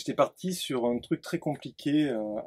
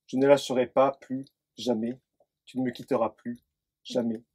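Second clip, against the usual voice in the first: intimate poem reading; 2 semitones lower than usual. Acted. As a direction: let each "jamais" drop and settle. Poem continues, obsessive and hushed.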